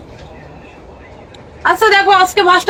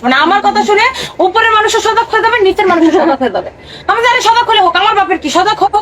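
defiant; 4 semitones higher than usual. Acted. Wife defiant about neighbours.

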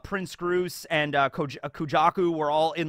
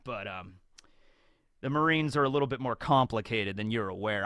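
Morgan world-weary; 3 semitones lower than usual. Retold or imitated. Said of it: "Morgan is just chuckling like".

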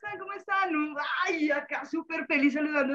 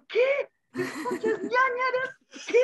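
retold disbelief; 11 semitones higher, slower than usual. Retelling to the hosts her shock at a client's word, mock surprise. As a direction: replay your stunned reaction, pitched way up. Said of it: "Y yo".

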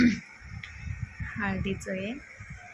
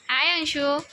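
mother cooing high at her daughter Anshu; 11 semitones higher than usual. Real, not acted. Mother talks to her little daughter.

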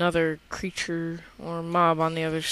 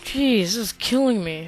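high, loud panicked outburst; frantic exclaiming; 5 semitones higher, 9 dB louder than usual. Real, not acted. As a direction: cry out under attack, flustered. Spider keeps attacking.

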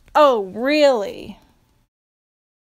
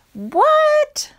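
shocked what. Real, not acted. Reader shocked by song text.

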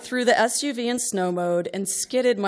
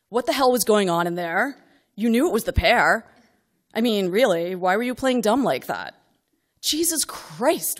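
louder scolding yell; 3 semitones higher, 5 dB louder than usual. Retold or imitated. Mother in the car scolding daughter after test, angry yell. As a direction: tear into her for playing dumb. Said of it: "and I yell".

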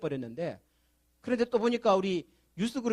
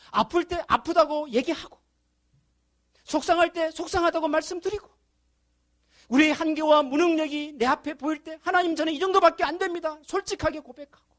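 high, loud fervent sermon voice, pressing each 왜; impassioned preaching; 7 semitones higher, 3 dB louder than usual. Acted. Pastor pleading with the congregation, impassioned preaching. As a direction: preach it hard, rising with every question.

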